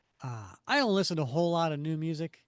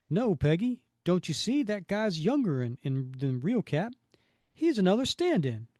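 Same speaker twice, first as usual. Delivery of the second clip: acted firm correction; 4 semitones higher, 5 dB louder than usual. Voicing Gabe correcting Peggy.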